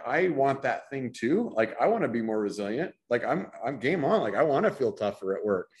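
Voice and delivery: lightly voiced frustrated worker; frustrated employee. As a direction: plead with the boss, lightly exasperated. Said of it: "the employee is like".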